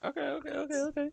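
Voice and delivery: words stretched through a yawn. Real, not acted. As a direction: say it mid-yawn. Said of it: "I, I had yawned".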